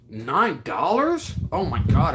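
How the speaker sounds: surprised. Real, not acted. Shocked at a cheap haircut.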